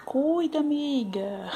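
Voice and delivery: quick high urging call; excited self-urging; hurry up. Real, not acted. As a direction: push yourself to hurry. Urging herself on.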